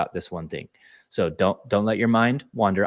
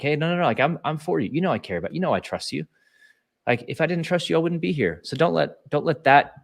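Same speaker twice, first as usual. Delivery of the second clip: higher, earnest reassurance, not shaming; gentle reminder; 7 semitones higher than usual. Retold or imitated. Leader reassuring an anxious team member, gently. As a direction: remind him kindly that you're for him. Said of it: "not in a shaming way, just reminding them".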